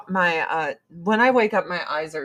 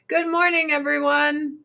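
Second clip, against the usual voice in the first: Good morning pitched high and bright; high cheery greeting; 8 semitones higher than usual. Shown as a demonstration. Vlogger greeting viewers again, high and chirpy. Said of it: "repeated vlog greeting".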